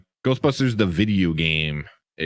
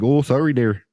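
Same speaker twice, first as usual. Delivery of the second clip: Canadian accent; 4 semitones higher than usual. Shown as a demonstration. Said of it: "Canadian accent's not too hard".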